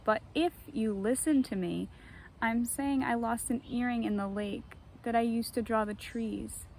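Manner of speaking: poetry reading. Acted. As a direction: read a short poem, easing down at the end. Reads her short poem.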